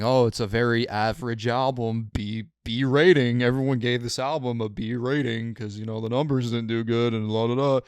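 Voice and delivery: snooty mock critic voice. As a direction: sneer it like a pompous critic. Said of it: "big-ass critics saying".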